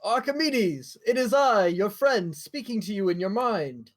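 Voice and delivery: high, grand mind-speech voice; lightly put-on mystical voice; telepathic voice. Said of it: "You don't sound like him".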